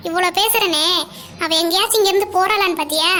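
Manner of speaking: firm, cross mother's telling-off; exasperated parental orders; stern scolding. Acted. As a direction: scold a daughter who answers back. Mother scolds daughter for talking back.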